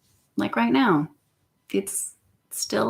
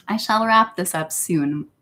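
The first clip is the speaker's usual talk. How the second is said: lightly put-on Russian voice; Russian accent. Vlogger signing off to the audience, Russian accent. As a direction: slip into a playful Russian accent. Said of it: "I'm doing the Russian voice right now".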